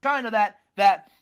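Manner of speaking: building loud rant that slows on tyrant; ranting Stallone. Retold or imitated. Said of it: "he's like".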